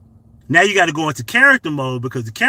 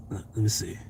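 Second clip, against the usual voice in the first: whisper; 6 semitones lower, 10 dB quieter, faster than usual. Real, not acted. Muttering while searching phone.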